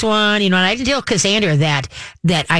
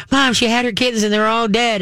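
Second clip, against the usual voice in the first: higher, imitating her daughter's panic; panicked child; 6 semitones higher than usual. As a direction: play the frantic eight-year-old, lightly. Daughter crying about dead kittens.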